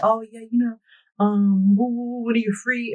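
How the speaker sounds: a lightly hammed-up carefree man; mock casual man. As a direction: imitate his breezy dodge. Mocking the man's dodging.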